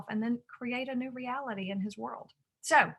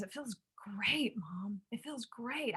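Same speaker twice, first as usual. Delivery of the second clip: soft relief; 6 dB quieter, slower than usual. Retold or imitated. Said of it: "takes a deep breath".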